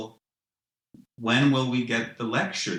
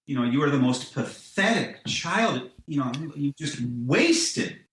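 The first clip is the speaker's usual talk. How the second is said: raised, scornful tirade at humanity; angry God lecture; 4 semitones higher than usual. Pretend. God berating humanity with mock anger. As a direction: scold them like a furious disappointed God. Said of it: "I just want us to be lectured in just the most angry way".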